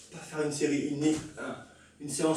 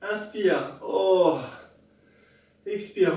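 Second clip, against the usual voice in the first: heavy breathing; much slower than usual. Real, not acted. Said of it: "Reprends ton souffle".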